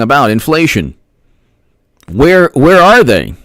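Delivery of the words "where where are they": indignant call-out. Real, not acted. Demanding where politicians are.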